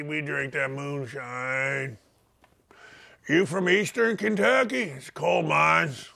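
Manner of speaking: slow, low, soft Kentucky hillbilly drawl; Kentucky accent. Pretend. Host mocks Kentucky fans in a slow Kentucky drawl.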